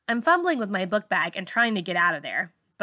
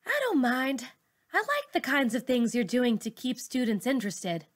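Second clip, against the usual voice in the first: put-on higher, eager young woman's voice; Ty's voice; 5 semitones higher than usual. Ty reassuring Miss Saunders while moving tables, higher and eager. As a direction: sound friendly and encouraging. Ty voiced as student-friendly helper.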